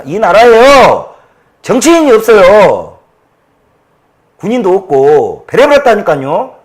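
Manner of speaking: loud, high, heated tirade; furious ranting. Real, not acted. Man ranting to viewers about his party, furious shouting. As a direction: shout your outrage at the party. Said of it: "제가 막 흥분을 해서".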